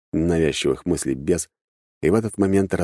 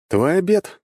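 said with a smile, much higher pitch; smiling; 13 semitones higher, 3 dB louder than usual. A narrator's reading. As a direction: hand it over with a teasing lilt. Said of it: "улыбнулся я". (с улыбкой, повышенным тоном)

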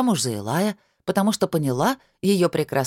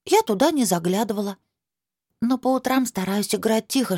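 put-on high earnest child voice; a small girl reasoning sensibly; little girl voice; 4 semitones higher than usual.

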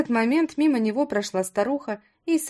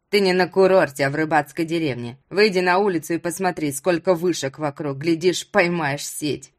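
put-on old villager in a lower voice; lowered voice of a plain-spoken old host; lightly voiced old fisherman; 4 semitones lower, 4 dB louder than usual. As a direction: lightly play a matter-of-fact old man.

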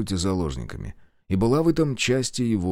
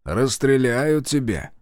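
taunting; 3 semitones higher, slower than usual. Acted. Taunting shout.

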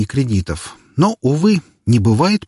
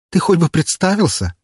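laughing; 9 semitones higher than usual. Acted. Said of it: "рассмеялась Валькирия".

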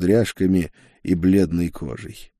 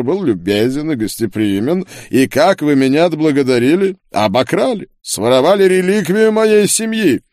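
higher, louder, building to a ringing accusation; indignant duke; 8 semitones higher, 5 dB louder than usual. A narrator's reading. Duke accuses the thieves of robbing his family, indignant. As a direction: accuse like a wronged nobleman, rising in pitch.

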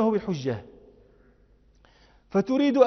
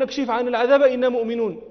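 mock plea; 3 semitones higher, 4 dB louder, faster than usual. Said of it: "فيقولون".

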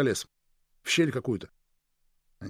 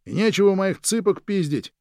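loud, high outraged bellow; yelling; 7 semitones higher, 5 dB louder than usual. A narrator's reading. Man chasing intruders out of his house with a stick, yelling. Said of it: "Палкой погоняет и орёт".

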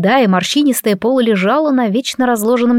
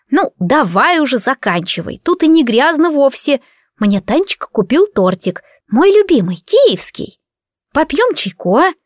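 put-on higher, wheedling old granny voice; old woman tempting the neighbour with cake; coaxing old woman; 5 semitones higher than usual. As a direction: lure her to tea like a doting granny.

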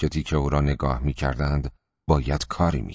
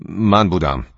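a touch strained, unfamiliar voice; voice not his own; 3 semitones higher, 4 dB louder than usual. Acted. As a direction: confess it in a voice that barely sounds like you. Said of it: "با صدایی که کاملاً شبیه صدای خودم نبود".

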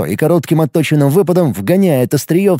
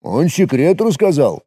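bleating. A narrator's reading. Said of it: "проблеял обиженный".

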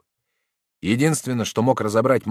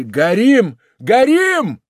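much higher and louder, alarm shout; terrible cries; 13 dB louder, much slower than usual. A narrator's reading. Workers outside shout fire in panic. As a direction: yell fire in terror. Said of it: "страшные крики".

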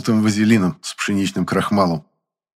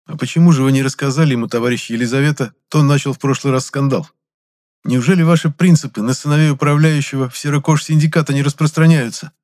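louder, fast, jabbing retort; needling retort; 6 semitones higher, 5 dB louder than usual. A narrator's reading. Gennady needles Lizonka about the scandal, jabbing. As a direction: push back fast and sly.

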